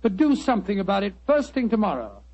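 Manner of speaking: earnest appeal to nurses; sincere wartime plea to nurses listening; public service appeal. Acted. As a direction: urge nurses to act now.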